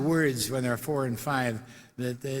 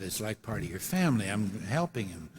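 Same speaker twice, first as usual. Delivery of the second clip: lower, softer comforting tone; gently consoling; 5 semitones lower, 4 dB quieter than usual. Retold or imitated. Host comforts a sad little boy, gently consoling. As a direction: console softly, dropping the pitch.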